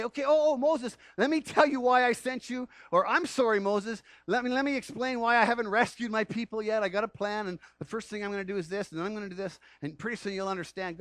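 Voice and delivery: high, loud, fussy over-explaining; a hint of a flustered God; mock apologetic God. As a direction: play God babbling excuses.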